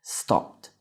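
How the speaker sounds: "Stopped" in one syllable, silent E; added consonant sound. Shown as a demonstration. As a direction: say "Stopped" with just a T sound after the P. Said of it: "simplesmente acrescenta o som da consoante".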